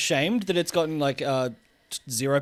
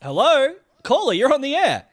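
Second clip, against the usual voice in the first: higher, bright radio host; 8 semitones higher, 4 dB louder than usual. Acted. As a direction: greet the caller like a DJ. Radio host greeting caller.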